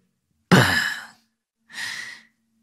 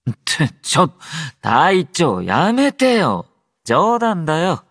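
higher, swooping, drawn-out protest; playful protest; 6 semitones higher than usual. Acted. Telling the captain to stop, playful protest. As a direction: plead lightly that it was a joke.

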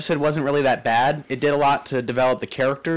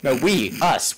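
usual speaking voice

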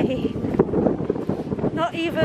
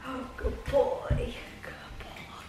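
whispering; 8 dB quieter, slower than usual. Real, not acted. Whispered praise to the dog.

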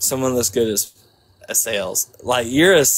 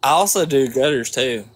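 put-on Southern accent. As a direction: lay on a Georgia Southern accent. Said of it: "I got that southern accent".

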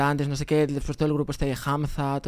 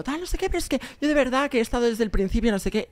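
gushing fan; 8 semitones higher than usual. Retold or imitated. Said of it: "Y le digo".

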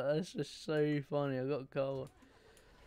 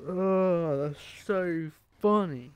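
laughing; 2 semitones higher, 8 dB louder, much slower than usual. Real, not acted. Laughing hard after crash.

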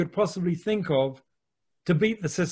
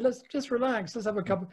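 soft coaxing; 4 semitones higher, 6 dB quieter than usual. Retold or imitated. Coaxing his friend to relax.

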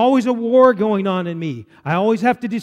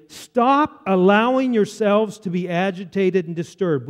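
slow, emphatic verse reading; Scripture reading; slower than usual. Acted. Preacher reads the verse to congregation, slow emphatic Scripture reading. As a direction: read the verse slowly and firmly.

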